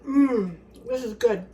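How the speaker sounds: pleased mm, this is good; savoring delicious food. Real, not acted. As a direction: savor it as you say it. Second bite of salad.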